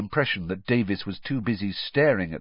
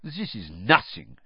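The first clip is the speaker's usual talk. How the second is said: dismissive; 2 semitones lower than usual. Acted. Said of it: "she said dismissively".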